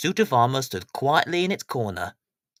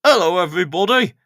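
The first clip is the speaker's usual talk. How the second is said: sheepish workman, a bit louder; awkward hello from a clumsy handyman; Ted's voice; 2 semitones higher, 7 dB louder than usual. Acted. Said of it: "said Ted".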